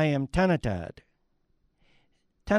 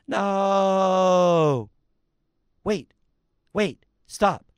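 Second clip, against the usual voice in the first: pleading cry; 4 semitones higher, 3 dB louder, much slower than usual. Acted. Tree pleads against the axe.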